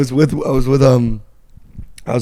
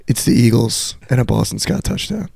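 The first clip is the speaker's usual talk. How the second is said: put-on calm, slow, matter-of-fact quote of the kid; lightly voiced, coolly certain stranger; cold confidence; 2 semitones lower than usual. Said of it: "such a cold confidence".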